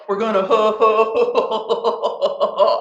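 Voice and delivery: "ho ho" drawn out very slowly and dissolving into laughter; laughing through it. Shown as a demonstration. Teacher slows the ho ho chant into laughter. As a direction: let the laugh take over the ho ho, slowly.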